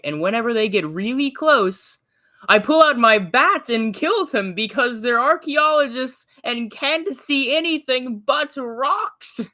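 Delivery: high, loud, theatrical faux-British accent; fancy accent. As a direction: build to a drawn-out punchline in a fancy put-on accent. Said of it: "Think fancy accent".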